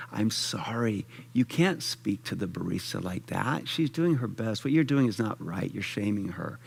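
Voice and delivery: nicely but direct. Retold or imitated. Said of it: "as nicely as I could, but very clear and direct".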